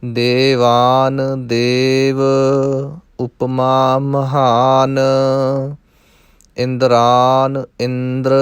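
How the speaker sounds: slow, measured verse recitation with drawn-out endings; scripture recitation. Shown as a demonstration. Teacher models Gurbani verse for learners, slow measured recitation. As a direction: recite line by line, holding the long vowels.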